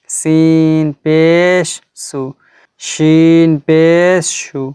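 slow, even chanting of each letter and its vowel; teacher's slow letter drill; slow recitation drill. Acted. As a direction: recite the chart slowly for students to repeat. Drills the letter chart slowly.

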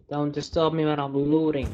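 fast irritated warning to teammates; annoyed snap. Real, not acted. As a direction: tell them off mid-loot. Gamer snaps at teammates.

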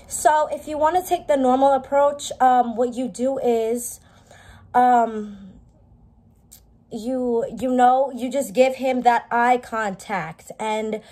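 measured customer service delivery, drawn-out fillers. Shown as a demonstration. Explaining the normal approach to viewers like a customer service rep. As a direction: put on a slow, careful customer service voice. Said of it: "use my customer service voice".

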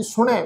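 ਸੁਣੈ with a faint tone and nasal ending; ਸੁਣੈ ਹਲਕੀ ਟੋਨ ਨਾਲ; light tone. Shown as a demonstration. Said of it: "ਹਲਕੀ ਜਿਹੀ ਟੋਨ 'ਚ ਉਚਾਰਨ ਕਰਨਾ ਜੀ".

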